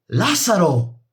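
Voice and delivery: high, anguished cry of a name; moaning cry. A narrator's reading. Sister crying out to her brother, anguished moan. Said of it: "gemí".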